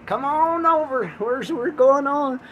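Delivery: high, loud eager questions; excited customer. Pretend. Eager customer asking about the ocean trip, high excited voice.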